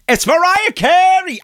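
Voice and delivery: very high, drawn-out mock squeal; stretched, high-pitched parting call; retold big reveal. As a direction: blurt the secret out slowly and high. Acts out parting revelation.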